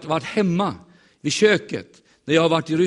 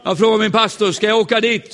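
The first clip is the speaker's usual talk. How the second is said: raised, louder eager question; excited retelling; 6 semitones higher, 6 dB louder than usual. Retold or imitated. Preacher excitedly retells asking his pastor. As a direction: lift it up, eager and loud.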